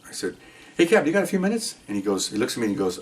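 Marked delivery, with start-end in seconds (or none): 0.8-1.8 high-pitched retold request; put-on casual request. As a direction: ask the boss lightly, pitch up. Approaching captain with put-on casualness.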